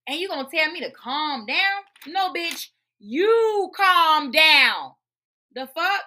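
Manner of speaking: high, loud, slow you calm down; indignant retort. Real, not acted. To the therapist who said calm down, indignant loud retort. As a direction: throw it back at her slowly.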